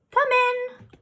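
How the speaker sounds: high, far-off call from inside. A narrator's reading. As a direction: shout it through the door. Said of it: "yelled a voice".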